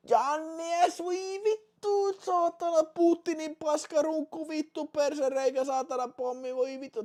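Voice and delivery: very high, loud despairing yells; anguished cursing. Real, not acted. Streamer wailing in despair as his marble drops out, very high and loud. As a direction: wail as the last hope drops out.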